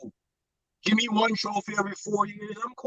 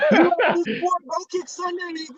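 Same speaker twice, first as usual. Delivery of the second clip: laughing; 10 semitones higher, 4 dB louder than usual. Real, not acted. Laughing mid rant.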